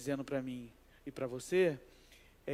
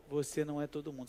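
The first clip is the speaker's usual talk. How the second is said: mother's rebuke; 5 dB quieter, faster than usual. Retold or imitated. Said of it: "o que que sua mãe faz? Fala pra você".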